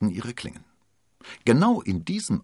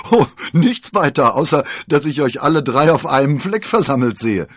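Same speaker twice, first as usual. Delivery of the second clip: giggling; 9 semitones higher, 12 dB louder than usual. Acted. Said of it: "kicherte D'Artagnan".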